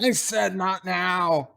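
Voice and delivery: slow angry shout; yelling. Retold or imitated. O'Brien yelling at his daughter Molly, angry slow shout. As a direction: snap it out as a slow yell. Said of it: "gets up and yells".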